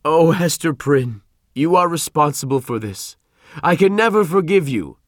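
accusing cry building to a high, loud peak; angry shout. A narrator's reading. The Reverend blaming Hester for deceiving him, shouting. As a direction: accuse her, rising to a shout. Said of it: "he shouted".

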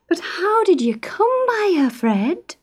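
high anxious wife's question; worried mother. A narrator's reading. Isa anxiously asking Fred, high and worried. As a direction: fret over where it came from.

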